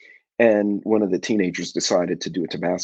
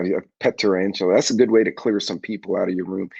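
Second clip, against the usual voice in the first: ordinary talk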